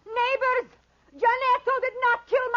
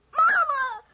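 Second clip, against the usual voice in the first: put-on frightened boy's cry, higher; crying for mama; 4 semitones higher, much slower than usual. Dying boy cries out for his mama, frightened. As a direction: call for his mother in panic.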